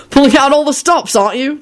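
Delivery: high, cheery teasing remark; cheerful. A narrator's reading. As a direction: toss it out cheerfully. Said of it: "George remarked cheerfully".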